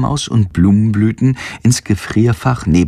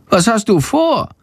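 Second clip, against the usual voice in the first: high-pitched little bat voice; high, curious bat; bat character, questioning; 11 semitones higher than usual. A narrator's reading. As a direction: ask in a high creature voice.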